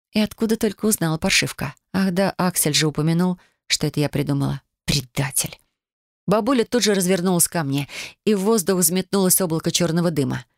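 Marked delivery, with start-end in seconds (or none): none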